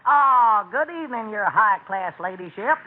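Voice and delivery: hammed-up upper-class English butler; lightly put-on posh English accent; fake posh British. Butler greets the lady guest in fake posh English. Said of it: "your man has a rather peculiar accent".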